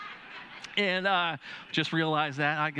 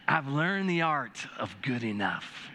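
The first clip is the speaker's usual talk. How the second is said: slow, savoring tone; 4 semitones lower, slower than usual. Shown as a demonstration. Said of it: "Doesn't that sound better?".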